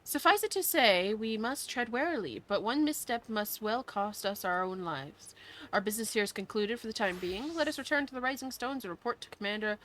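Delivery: theatrical fantasy hero speech; hammed-up quest hero. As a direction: declaim it like a noble adventurer. Reads quest dialogue aloud in character.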